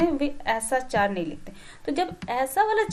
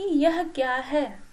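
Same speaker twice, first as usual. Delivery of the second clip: "यह क्या है?" asked very slowly, each word drawn out; slow asking question; much slower than usual. Shown as a demonstration. Teacher slowly asks a child about a leaf, slow questioning. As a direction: ask it slowly and clearly like to a small child. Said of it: "आपने एक शुरुआत कैसे की?".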